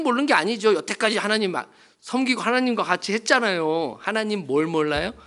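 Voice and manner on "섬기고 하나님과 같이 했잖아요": normal talking voice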